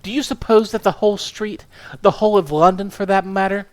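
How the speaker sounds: a small furious woman tearing into her husband; indignant wife. Acted. Wife scolding her husband for his scandals, indignant.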